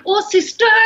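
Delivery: high, loud mock surprise; imitating someone caught out, suddenly deferential; startled apology. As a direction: exclaim it high, hammed-up. Startled men caught talking about her.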